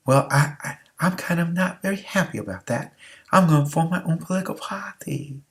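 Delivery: a hint of a Virginian Jefferson, soft and breathy; lightly voiced Jefferson grumbling; bad Jefferson accent. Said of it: "that Jefferson accent was terrible".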